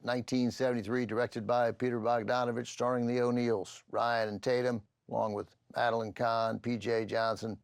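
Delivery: measured TV movie host intro; film introduction. Real, not acted. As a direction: present the film and its cast, evenly. Presents the film.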